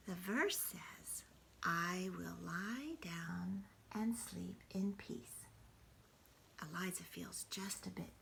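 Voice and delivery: hushed bedtime reading without voice; whispered bedtime story. Acted. Grandmother whispering a bedtime story to the grandchild. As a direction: whisper the story to a sleepy child.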